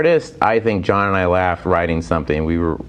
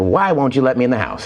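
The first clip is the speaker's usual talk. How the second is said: 3 semitones higher than usual. Retold or imitated. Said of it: "like, I go".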